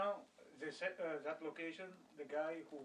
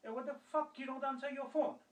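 raised, higher-pitched cursing tirade; indignant re-enacted dressing-down; retold angry rant; 8 semitones higher, 4 dB louder than usual. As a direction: act out an irate boss telling someone off. Retells boss's angry cursing rant.

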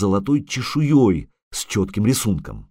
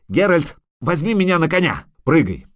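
high-pitched, pleading shout; urgent calling; 8 semitones higher, 3 dB louder than usual. A narrator's reading. Bard begging a ride from the witcher, urgent.

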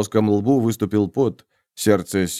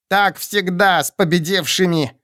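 hissing; 8 semitones higher than usual. A narrator's reading. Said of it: "зашипел древопойманный".

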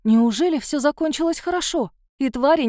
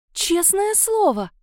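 insistent protest; 8 semitones higher, slower than usual. Acted. Kamila insists she's fine.

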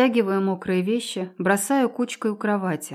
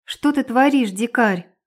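indignant yell; shouting; 4 semitones higher, 4 dB louder than usual. Acted. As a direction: shout it at him in outrage. Heroine yells while carried.

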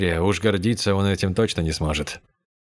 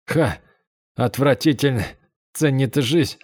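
higher, bitter self-mockery, like a far-off echo; faint self-mocking voice; 5 semitones higher than usual. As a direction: laugh at yourself under your breath. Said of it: "В еле слышном голосе мальчика задержалась насмешка над самим собой". (еле слышная насмешка над собой)

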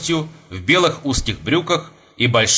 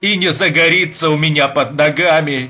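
higher, fervent stage declamation; anguished young Russian, impassioned; 5 semitones higher, 4 dB louder than usual. Acted. Young man laments the earth under his feet, fervent and high. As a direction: cry it out as a raised-pitch plea.

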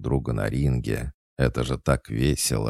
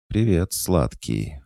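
slow, higher sweet sing-song; tender sing-song; 5 semitones higher, slower than usual. Acted. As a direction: sing it out fondly. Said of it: "ласково пропела Матильда".

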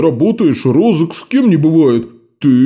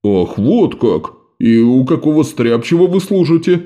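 sceptical fat man. A narrator's reading. Fat man questions Jean's credentials, suspicious. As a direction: test him warily.

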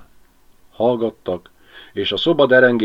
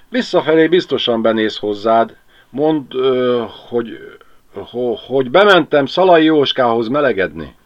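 louder, hesitant instructing man; Pali voiced; 6 semitones higher, 7 dB louder than usual. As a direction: stumble over the excuse.

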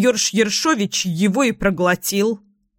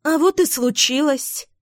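chirped; 6 semitones higher than usual. A narrator's reading. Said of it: "чирикнула бойкая синичка".

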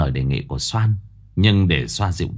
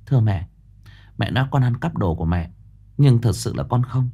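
calm; faster than usual. Acted. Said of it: "Cô nhìn bà Lai bình tĩnh".

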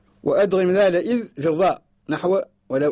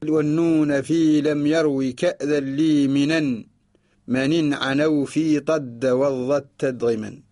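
slow chanted recital of the verse; poem recitation; slower than usual. Shown as a demonstration. Teacher chanting the verse for students, slow. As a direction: recite the line slowly like a teacher. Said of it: "هذا هو معنى قوله".

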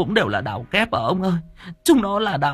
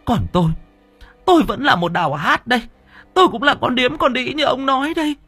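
very high-pitched outraged wife's cry; shrieked reproach, wounded and furious; near screaming. A narrator's reading. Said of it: "bà nói như hét". (nói như hét, phẫn uất)

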